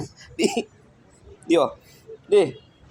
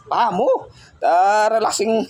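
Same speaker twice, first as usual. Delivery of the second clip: slow coaxing; 7 semitones higher, 3 dB louder, much slower than usual. Real, not acted. Soothing pet during challenge.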